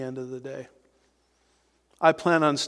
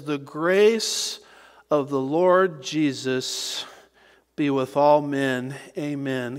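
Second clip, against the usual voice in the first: grace lifted and held, the rest slow and measured; slow reverent reading with grace stressed; slower than usual. Shown as a demonstration. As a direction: lean on grace, let Lord Jesus come slowly. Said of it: "Can't emphasize that word grace enough".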